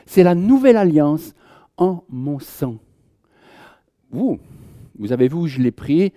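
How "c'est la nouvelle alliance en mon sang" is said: Jesus speaking. Retold or imitated. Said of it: "et puis il dit".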